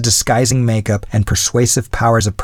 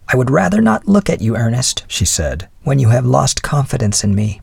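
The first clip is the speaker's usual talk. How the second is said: higher-pitched wife, reproachful; wife's voice; 4 semitones higher than usual. Acted. Wife to her husband who lost confidence in her, higher voice.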